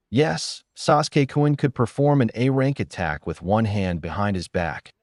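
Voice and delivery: mildly eager praise; a touch of gushing excitement; enthusiastic exclaim. Acted. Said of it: "Sakura exclaimed enthusiastically".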